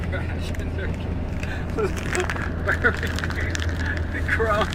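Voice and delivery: high giggling words through laughter; cracking up mid-sentence; laughing. Real, not acted. Cracking up over crumbs.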